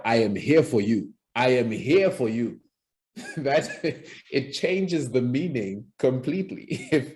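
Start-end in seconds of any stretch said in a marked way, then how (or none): 0.0-2.6 intimidating. Shown as a demonstration. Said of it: "if you found me intimidating and I walked into your room speaking like that". 3.1-3.7 laughing at own demo; amused chuckle. Real, not acted.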